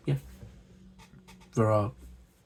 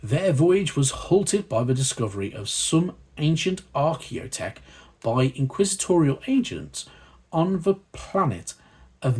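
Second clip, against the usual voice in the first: lore reading; 2 semitones higher than usual. Acted. Host reading the magazine's lore to viewers, measured narration. Reads lore section aloud.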